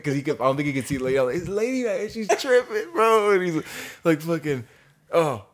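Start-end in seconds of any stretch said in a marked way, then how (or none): 1.4-3.3 high, urgent pointing out; urgent warning. Retold or imitated. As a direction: warn him she's losing it.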